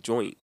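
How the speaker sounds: joint with full "oy" and final t; outsiders' pronunciation. Retold or imitated. Co-host mimics outsiders getting slang wrong, joint as "JOYNT". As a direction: say "JOYNT", t sounded. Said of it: "they don't even say join".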